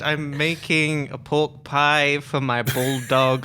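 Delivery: slow, lightly posh British voice; mild posh British accent. Pretend. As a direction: repeat it as a proper Londoner. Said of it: "I think you said".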